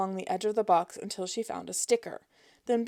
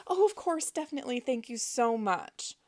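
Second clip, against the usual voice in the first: high, gushing fake politeness; mock sweetness; 4 semitones higher than usual. Sugary agreement to phone agent.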